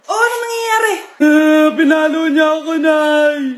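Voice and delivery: loud, sing-song bawl for mother; wailing call. Acted. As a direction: bawl out the complaint. Child wails to mother. (palahaw ng bata)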